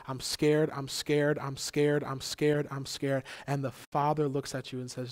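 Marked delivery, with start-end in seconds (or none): 0.1-3.2 loud, insistent repeated cry; acted outcry without a full scream; mock scream. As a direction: hammer out each repeat, raised voice. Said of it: "while you scream".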